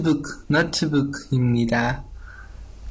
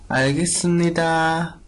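Seoul pronunciation; 3 semitones higher, faster than usual. Shown as a demonstration. Teacher showing how Seoul speakers answer, in a Seoul accent. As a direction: say 알겠습니다 the Seoul way. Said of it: "un poco de más de la pronunciación de Seúl".

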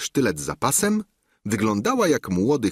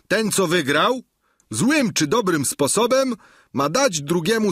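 raised, stern governor's voice pronouncing sentence; Sancho's verdict; 10 semitones higher than usual. Acted. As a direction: hand down the judgement like a peasant governor. Sancho wydaje wyrok. (wyższy, surowy głos gubernatora)

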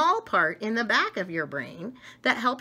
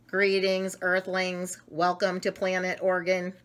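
a hint of an alien. Brain alien greeting.

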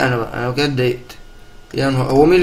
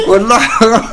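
higher, louder laughing complaint; laughing protest; 7 semitones higher, 5 dB louder than usual. Real, not acted. Player protesting his loss, laughing.

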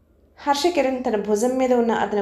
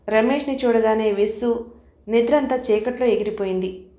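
ordinary delivery

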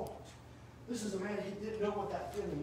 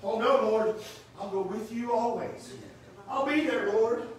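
impassioned vow; 3 semitones higher, 7 dB louder than usual. Acted. Peter's vow voiced in sermon.

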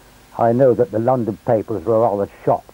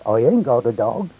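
lightly voiced Hampshire villager; a milder broad Hampshire denial; broad Hampshire accent. Villager repeats his denial to the sergeant, mild Hampshire accent. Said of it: "in his broad Hampshire accent".

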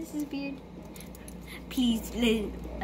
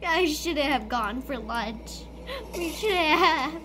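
panicked whimpering; 5 semitones higher, slower than usual. Real, not acted. Scared gamer cries near death.

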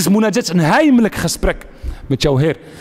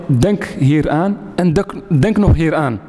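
mock tempter; 4 semitones lower, slower than usual. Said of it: "De shaitan zegt tegen jou".

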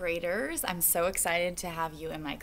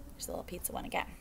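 whispered aside; 7 dB quieter, much faster than usual. Real, not acted. Aside to kids about picture.

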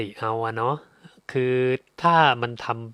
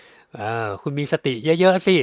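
slow, drawn-out lecturing voice, higher and louder; mock preachy advice; 4 semitones higher, 6 dB louder, slower than usual. Speaker mimicking himself lecturing the listener, slow and preachy. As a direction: stretch it out like smug advice. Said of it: "อย่างนี้พี่บอกได้ไหมว่า".

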